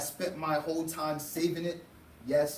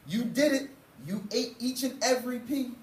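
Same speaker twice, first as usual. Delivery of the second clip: gleeful shout; 7 semitones higher than usual. A narrator's reading. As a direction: cheer it like a proud mom. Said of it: "she shouted with glee".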